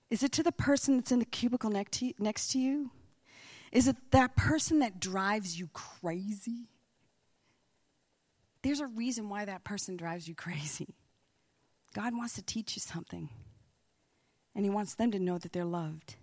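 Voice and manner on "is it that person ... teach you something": hushed, breathy confiding whisper. Real, not acted. Preacher whispering a secret truth to the congregation.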